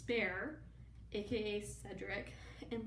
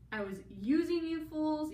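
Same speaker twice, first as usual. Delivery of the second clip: mock villain gloat; 7 semitones higher, 6 dB louder than usual. Villain reveal.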